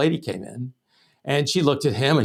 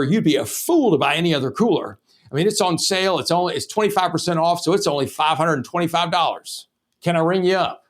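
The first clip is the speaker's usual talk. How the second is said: eager, pushy rookie salesman gushing about the cooler; overexcited sales pitch. Retold or imitated. Eager rookie salesman overwhelming a customer who came for a cooler, gushing. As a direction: oversell it like a kid who just learned everything. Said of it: "He was way too excited".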